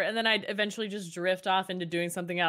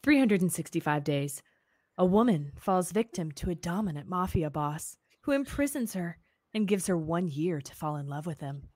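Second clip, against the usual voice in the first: sultry voice. Pretend. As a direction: read it like a sultry temptress. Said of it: "do the description in your sultry voice".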